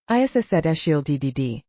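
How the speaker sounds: stuck repeating the d in "de-de-de"; worsening stammer. A narrator's reading. Shy teammate repeating himself under the group's stare, stammering worse. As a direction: stammer harder, never finishing "de-de-de". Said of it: "Q T's stammer becomes worse".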